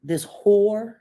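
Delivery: mock shout. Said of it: "how did ... say it?".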